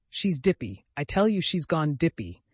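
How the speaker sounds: mild angry snort of an uncle; understated angry snort; snorting angrily. Acted. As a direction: huff it out in disgust. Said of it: "he snorted angrily".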